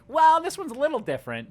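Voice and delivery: high, shrugging lazy scientist. Retold or imitated. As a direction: toss it off like a lazy expert. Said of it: "they're like".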